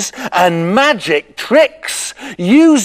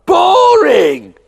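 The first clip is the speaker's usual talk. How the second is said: whining, crying out about boredom; bored boy wails to himself, crying out; bored whine. Acted.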